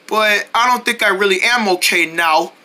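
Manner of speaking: a touch of sorrow, subdued; mildly sad. Acted. Hurt cat admitting it to friends, subdued sadness. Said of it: "he does feel sad".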